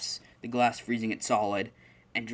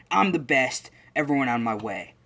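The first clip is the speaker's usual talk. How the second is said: Bakugo attitude; 2 semitones higher, 4 dB louder than usual. Retold or imitated. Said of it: "all that attitude".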